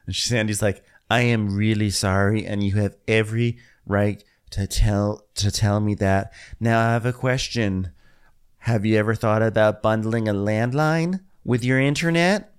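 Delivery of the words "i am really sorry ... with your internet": lightly voiced scripted apology and pitch; customer service agent. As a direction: imitate a measured, placating service agent. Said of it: "Don't try to customer service me".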